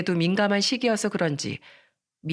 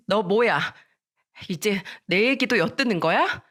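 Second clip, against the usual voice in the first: indignant accusation, only slightly raised; mild yell. Acted. Miran catching friend eavesdropping, mildly shouted accusation. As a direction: challenge with a half-raised shout. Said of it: "소리치면서 말했어요".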